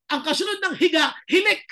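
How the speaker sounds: mock exclamation, snoring comes next. Punchline about falling asleep praying.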